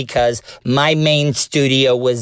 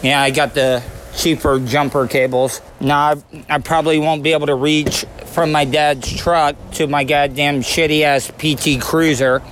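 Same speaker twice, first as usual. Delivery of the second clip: talking around a wad of chew; words slurred by a fat dip; lip full of dip. Real, not acted. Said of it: "I had a dip in my mouth".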